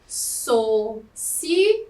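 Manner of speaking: SOCIAL split slowly into so... ci... au; syllable-by-syllable pronunciation. Shown as a demonstration. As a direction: say "Social" in separate syllables, final L sounding like U. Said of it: "Vamos pronunciar a palavra para verificarmos". ("Social" devagar, sílaba por sílaba, com L final som de U)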